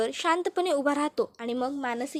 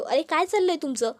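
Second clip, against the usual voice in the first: raised, insistent demand for answers; mild shout; 2 semitones higher than usual. Acted. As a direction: brother losing patience, mildly raised voice. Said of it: "Tejas जोरात ओरडतो".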